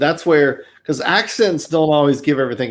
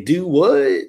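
Texan "Do what?"; 3 semitones higher than usual. Shown as a demonstration. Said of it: "They say".

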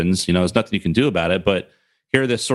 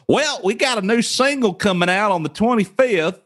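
high-pitched put-on white-guy voice; mock a dubbed-in white guy, pitched way up; white guy overdub; 11 semitones higher than usual. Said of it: "like, some white guy".

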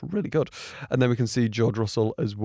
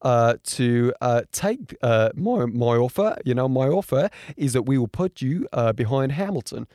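badly faked Australian accent; lightly attempted, hesitant Australian accent; terrible Australian accent. Race director offers Jonathan an option, poor Australian accent. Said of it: "that was a terrible Australian accent".

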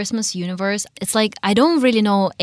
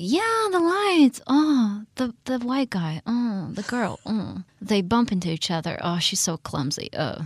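mock cliché narration; 2 semitones higher than usual. Mocking cliché movie plot.

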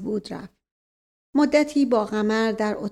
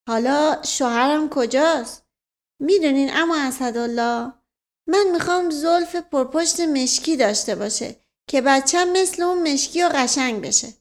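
put-on higher, childlike bride-to-be; lightly voiced simple-minded girl, eager; 4 semitones higher than usual. Simple girl tells uncle her wish for a husband, childlike. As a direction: lightly play an innocent girl dreaming aloud.

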